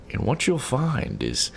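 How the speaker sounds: slow, drawn-out try at a soothing monotone; McAfee impression attempt. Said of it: "yeah, there, I'm almost kinda getting it".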